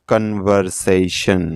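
কনভারসেশন slowly, split as কন-ভার-সে-শন; syllable-by-syllable pronunciation. Shown as a demonstration. Teacher joins the broken syllables for learners, কনভারসেশন slow and segmented. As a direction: sound out কনভারসেশন in four slow, distinct syllables. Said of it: "syllable অনুযায়ী ভাঙব".

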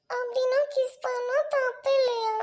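slow, drawn-out tearful question; tearful wondering. Acted. Girl left alone doubting herself, tearful. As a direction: puzzle it out slowly through sniffles.

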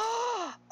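sharp high gasp; sudden high intake of breath. Real, not acted. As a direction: gasp in alarm. Player gets hit.

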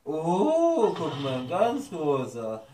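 high, cooing praise for a pet; squeaky praising a dog. Pretend. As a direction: gush over a big cute animal. Cooing at an animal.

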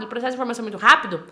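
very fast, tumbling delivery; quick demonstration of fast speech; fast talker. Shown as a demonstration. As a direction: race through it like a rapid talker. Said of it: "o Wilson fala muito rápido".

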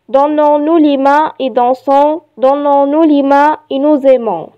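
measured, evenly phrased poem reading; poem recitation. Shown as a demonstration. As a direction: recite it line by line for learners. Reads poem aloud to learners. (إلقاء قصيدة بتأنٍّ)

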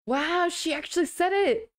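real disbelief she did it; surprised. Real, not acted. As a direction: caught off guard by the chat. Surprised someone said it.

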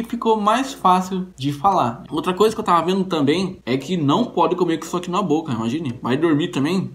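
metal caps over teeth; speaking with tooth jewelry; through grillz on teeth. Real, not acted. Seen 4: Metal grillz seen on teeth while talking; removed and adjusted by hand.

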